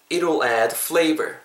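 "It'll add flavor" in one go without a break; straight through. Shown as a demonstration. Teacher having learners follow in one go, joined-up phrase. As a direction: run "It'll add flavor" together, no pause. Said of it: "한 번 쭉 할 테니까".

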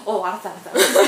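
retold panicky giving-in; flustered groom. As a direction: hurriedly placate her in mock fluster. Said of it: "남자가 너무 당황해서".

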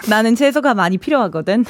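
emotionless robotic read. Pretend. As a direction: read it like a flat AI. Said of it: "like the A I voice because that was very just, just no emotion".

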